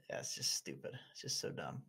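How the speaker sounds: fed-up breathy whisper; a disgusted whisper to himself. Real, not acted. Disgusted aside after sigh.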